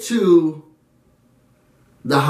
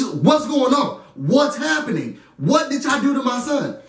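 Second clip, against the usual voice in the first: alarmed mother; 6 semitones higher than usual. Retold or imitated. Mother alarmed on phone, retold.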